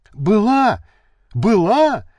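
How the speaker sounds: the maid eagerly identifying the woman; voiced eager shout; excited shout. A narrator's reading. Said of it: "закричала горничная Варя".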